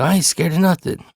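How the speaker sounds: high-pitched denial at normal volume; retold protest losing its force; defiant without yelling. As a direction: keep denying it, but stop yelling. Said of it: "I'm not yelling anymore".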